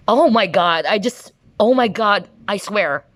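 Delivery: high, breathless oh my God; real jolt of surprise; startled excitement. Real, not acted. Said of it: "I'm so enthusiastic".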